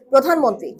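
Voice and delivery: প্রধানমন্ত্রী, ধা বিনা টানে ছোট করে; প্রধানমন্ত্রী বলুন, ধা-তে কোনো টান নয়; short dha. Shown as a demonstration. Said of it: "টান দিতে পারবেন না". (প্রধানমন্ত্রী, টান ছাড়া স্পষ্ট উচ্চারণ)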